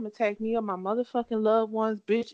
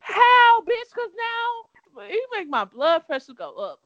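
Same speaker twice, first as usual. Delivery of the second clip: rising angry disbelief, then slower; calm turning angry; 8 semitones higher, 4 dB louder, slower than usual. Real, not acted. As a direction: voice jumps up high and loud. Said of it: "I hear your octaves go up".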